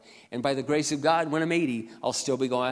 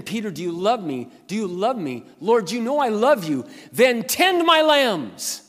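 higher, building to a loud drawn-out cry; insistent retold exchange; 8 semitones higher, 8 dB louder, slower than usual. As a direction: act out the pleading exchange, rising to a shout. Acting out Jesus and Peter's exchange.

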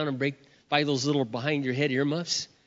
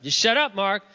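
sharper, louder order to himself; higher, emphatic self-rebuke; self-scolding; 4 semitones higher, 4 dB louder than usual. Retold or imitated. Husband reining in his own temper, self-scolding.

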